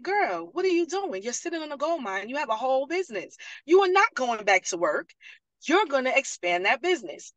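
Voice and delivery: retold pep scolding. Retold scolding pep talk from Nikisha.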